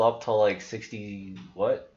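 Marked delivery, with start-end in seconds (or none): none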